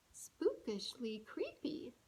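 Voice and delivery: unvoiced creepy whisper; spooky whisper. A narrator's reading. Reader making the creepy words spooky. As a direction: whisper it like a ghost story.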